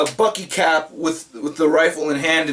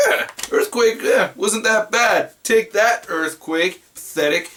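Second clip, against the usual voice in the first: dismissive, higher at first, dropping back on "pathetic"; mock scoffing; 3 semitones higher than usual. Collector taunting the earthquake that spared his figures, mock scornful. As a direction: shrug it off with mock bravado.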